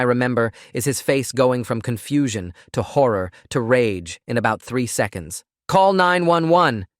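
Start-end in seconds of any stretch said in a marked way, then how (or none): 5.7-6.9 high, slow desperate scream. A narrator's reading. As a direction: scream it in panic. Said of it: "he was screaming".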